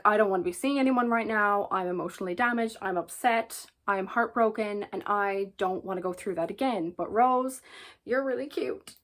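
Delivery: half-hearted protest, then cave in; Saoirse protesting. Acted. A reader voicing Saoirse, a mild mock protest. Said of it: "Saoirse is like".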